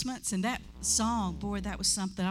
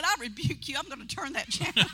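mock rebuke; 4 semitones higher than usual. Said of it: "I said".

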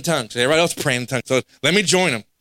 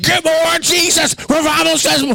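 much higher and louder joyful shout; louder, higher exuberant church cry; excited screaming; 11 semitones higher, 3 dB louder than usual. Retold or imitated. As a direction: cheer it out like a rocking revival crowd. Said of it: "They're screaming".

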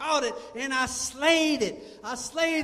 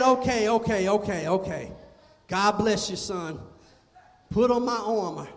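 put-on King Saul, lower and calm, blessing the boy; King Saul's voice; 5 semitones lower than usual. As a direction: speak as a kindly old king, lower. Saul speaks to young David.

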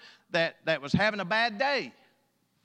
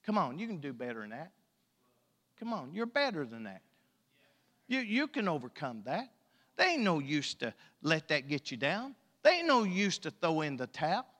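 gentle encouragement; 4 semitones lower than usual. Acted. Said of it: "look at me and say".

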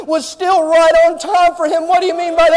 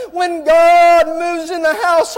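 slow ringing proclamation; slower than usual. Real, not acted. Preacher proclaiming to congregation.

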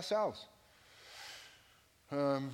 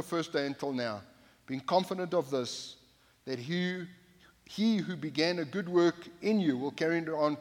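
louder, formal Bible reading; scripture reading; 4 dB louder than usual. Acted. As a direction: read the passage out to the church. Reads scripture aloud to congregation.

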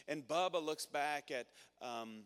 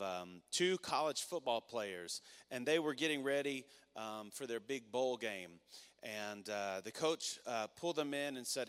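ordinary talk, nothing marked

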